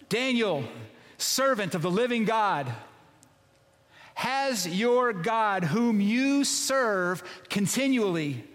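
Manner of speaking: anguished royal call, slow and drawn out; king yelling down into the den. Retold or imitated. Pastor voicing the king calling to Daniel, anguished high shout. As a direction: call into the pit, desperate for an answer. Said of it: "just imagine the king, like, yelling at this rock".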